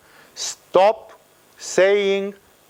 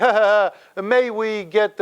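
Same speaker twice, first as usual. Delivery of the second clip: mock indecisive speech; 4 semitones higher than usual. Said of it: "then their speech is like".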